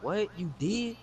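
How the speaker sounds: high, startled disbelief; surprised. Retold or imitated. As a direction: shoot it up in shock. Friends react in disbelief.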